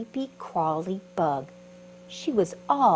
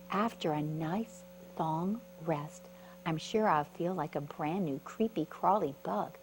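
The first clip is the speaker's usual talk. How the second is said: sleepy, soft; 2 semitones lower, 5 dB quieter than usual. Acted. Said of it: "tucked herself in tight and said".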